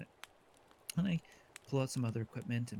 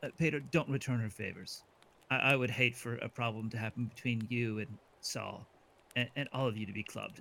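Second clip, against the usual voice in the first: smiling menace. Acted. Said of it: "if you can hear the smile in my voice".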